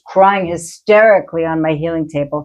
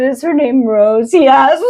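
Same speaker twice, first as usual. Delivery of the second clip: excited; 7 semitones higher, 4 dB louder, slower than usual. Retold or imitated. Healer asks, girl answers.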